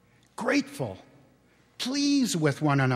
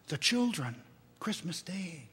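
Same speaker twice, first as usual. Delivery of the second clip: mild; 7 dB quieter than usual. Acted. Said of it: "was Bob's mild answer".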